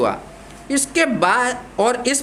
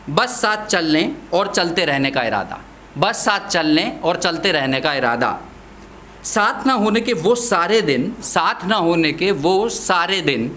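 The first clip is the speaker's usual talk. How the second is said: measured verse, falling line endings; poem recitation; 3 semitones lower than usual. Acted. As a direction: recite in spaced, deliberate phrases.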